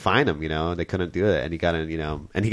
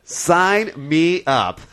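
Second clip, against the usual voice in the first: drawn-out, higher retold acceptance; Clint Eastwood; 7 semitones higher, 4 dB louder, much slower than usual. Host mimics a movie star taking the orangutan role, drawn out slowly. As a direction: imitate an actor agreeing, stretching each word out. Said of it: "and he's like".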